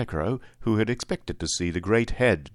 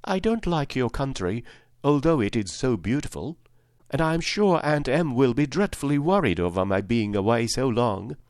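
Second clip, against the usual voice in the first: put-on higher-pitched, earnest little girl; a touch of sincere pleading; 4 semitones higher than usual. Girl explains to Oz why she wants home, mildly earnest. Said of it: "she answered earnestly".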